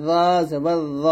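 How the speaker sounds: র said as a heavy zo, rounded o; thick zo. Shown as a demonstration. Teacher repeats the last letter, thick zo. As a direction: hold র thick, vowel rounded. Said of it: "মোটা করে".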